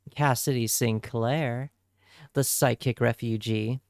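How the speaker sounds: usual speaking voice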